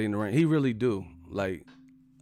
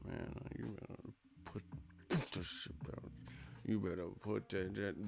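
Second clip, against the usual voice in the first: hushed, half-swallowed mock threat; angry mumbling; 3 semitones lower, 15 dB quieter than usual. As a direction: mumble it through a tight, pursed mouth. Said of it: "they turn into a mumble rapper".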